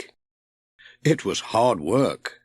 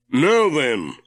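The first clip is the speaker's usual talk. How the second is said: Ted; 4 semitones higher, 4 dB louder than usual. A narrator's reading. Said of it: "said Ted".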